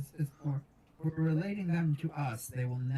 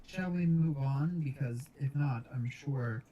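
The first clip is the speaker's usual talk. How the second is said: calm in-character Death. Acted. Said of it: "Death will, not looking at Famine, say".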